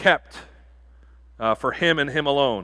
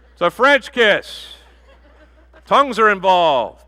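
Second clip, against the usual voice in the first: laughing; 6 semitones higher, 6 dB louder, slower than usual. Real, not acted. Pastor jokes about the kiss.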